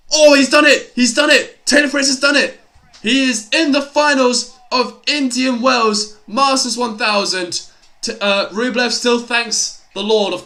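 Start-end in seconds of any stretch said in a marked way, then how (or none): 0.1-7.7 much louder, higher shout of real joy; ecstatic celebration. Real, not acted. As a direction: roar it as the winner is sealed. Match point won, live commentary.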